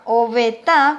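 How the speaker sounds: "Obeta" with its final A nasalised; nasal accent. Shown as a demonstration. Teacher explaining the word for window, "Obeta" with nasal A. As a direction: stress and nasalise the end of "Obeta". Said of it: "con acento nasal".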